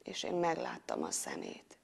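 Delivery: soft, low, wondering narration; hushed awe. A narrator's reading. Hero seeing the monster's eyes, awed and hushed. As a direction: drop the voice at the revelation.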